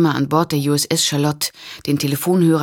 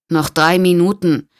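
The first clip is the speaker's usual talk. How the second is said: worried call; 2 semitones higher, 5 dB louder than usual. Acted. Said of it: "rief Tolland besorgt".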